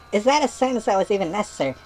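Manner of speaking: normal talking voice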